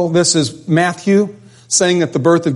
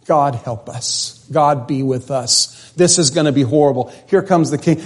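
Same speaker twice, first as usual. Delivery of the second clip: despairing lament; 2 semitones lower than usual. Retold or imitated. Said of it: "he was just saying".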